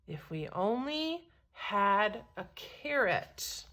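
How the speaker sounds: soft, slow wistful sigh; a traveler sighing for a carrot. Acted. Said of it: "he paused and sighed".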